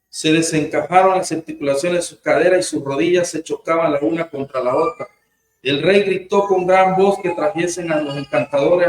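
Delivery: measured Bible reading to the congregation; scripture reading. Acted. Pastor reading Daniel to the congregation, measured scripture reading. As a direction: read the passage steadily, like a lesson. Reads Daniel chapter five aloud.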